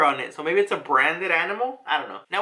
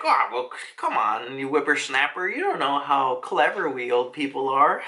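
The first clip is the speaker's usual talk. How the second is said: put-on old man; 4 semitones lower than usual. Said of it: "some old guy is like".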